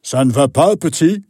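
big deep voice. Acted. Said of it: "dit-il de sa grosse voix".

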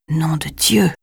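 breathless unvoiced whisper of shock; whispered oath. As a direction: whisper the curse in awe. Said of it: "Le chuchotement blasphématoire de Jason". (juron chuchoté, sans voix)

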